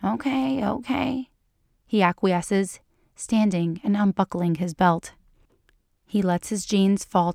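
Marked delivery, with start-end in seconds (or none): 0.0-1.3 higher-pitched, giving in; reluctant acquiescence. A narrator's reading. He gives in after she sighs impatiently, higher and acquiescing. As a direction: give in to an impatient request. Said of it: "she sighs impatiently ... he acquiesces".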